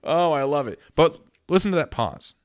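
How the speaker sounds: loud, high delight. Real, not acted. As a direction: gush with delight. Delighted reaction.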